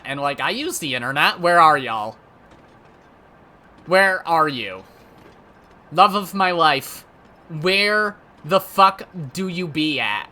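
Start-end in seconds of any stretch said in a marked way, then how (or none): 1.4-2.2 loud call into the void for "y'all". Pretend. Calling out to future partner. 3.9-4.8 loud call, "Where" leaned on a bit more; calling out again. Pretend. Calling out to future partner. 5.9-10.3 hammed-up lovesick plea. Hammed call to soulmate.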